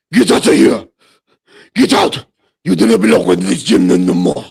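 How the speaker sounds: mock South African shout. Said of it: "this guy sounds fucking hilarious".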